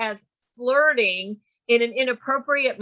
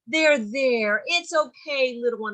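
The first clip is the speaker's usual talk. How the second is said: mock comforting a child. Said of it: "how does an adult comfort a child".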